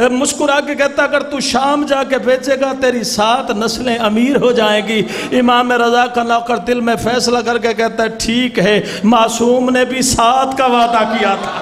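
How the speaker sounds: steady preacher's narration with voiced figures; majlis storytelling. A zakir narrating the Imam's sandal story, measured preaching. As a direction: tell the tale to the mourners.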